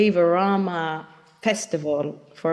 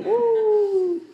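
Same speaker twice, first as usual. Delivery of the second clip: high laughing whoop; delighted laugh, voice jumping up; laughing woo; 13 semitones higher than usual. Real, not acted. Laughs at the technology working.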